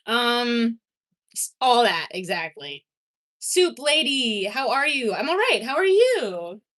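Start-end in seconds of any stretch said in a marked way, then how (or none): 3.4-6.6 cheerful greeting. Real, not acted. Greeting a viewer.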